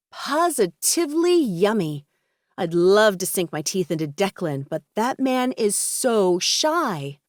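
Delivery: slow, swooping, hammed-up purr of delight; flirtatious Sky, man-hungry. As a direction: savor every word like a shameless flirt. Narrator voices flirtatious Sky.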